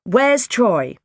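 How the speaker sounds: loud, high worried question; acted motherly alarm; urgent demand. A narrator's reading. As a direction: cut in urgently as a worried mum. Mother frantic for missing son.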